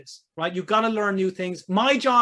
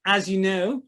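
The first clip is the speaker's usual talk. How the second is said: attempted Australian accent, lightly put on; slower than usual. Coach reading an Australian client's message aloud, tentative Australian accent. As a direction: try your best Australian accent, not quite landing it. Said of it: "This is my best Australian accent".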